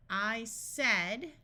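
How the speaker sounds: slow, with a rise on "said"; deliberate practice reading; word by word. Shown as a demonstration. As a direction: separate each word for learners. Practice sentence read word by word.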